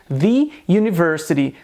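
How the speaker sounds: "the university" said "thee university"; long ee in "the" before "university"; wrong "thee" form. Shown as a demonstration. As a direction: mistaken "the university", "the" rhyming with "see". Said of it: "essa forma não é a correta".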